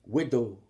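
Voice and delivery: Widow, the T of Whittle dropped. Shown as a demonstration. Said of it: "I took the T's out too".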